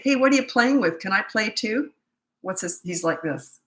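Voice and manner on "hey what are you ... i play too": playful parent. Retold or imitated. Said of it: "If you say".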